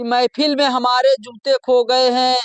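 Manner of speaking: slow, drawn-out first reading of the couplet; slow shayari line. Pretend. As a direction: recite it slowly, like the opening of a mushaira verse. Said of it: "बोला कि". (धीमी आवाज़ में शायरी की पहली पंक्ति)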